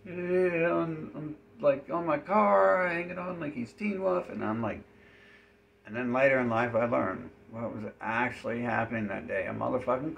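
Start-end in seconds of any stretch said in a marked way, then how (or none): 0.0-4.3 higher, louder, slow character voice; higher mock NPC hanging on the car. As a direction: play the clinging NPC gleefully. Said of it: "and he's like".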